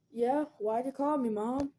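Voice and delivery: uncle voice. Retold or imitated. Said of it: "I will bring your uncle".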